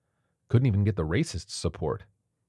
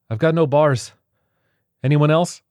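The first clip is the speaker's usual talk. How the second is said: higher, louder anxious question; anxious call; 9 semitones higher, 9 dB louder than usual. A narrator's reading. Martha asking the others about signal, anxious. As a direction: ask the room tensely.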